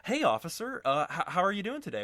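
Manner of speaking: high, eager welcome for the officer; butter up the cop; fawning. Acted. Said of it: "demeanor completely changes".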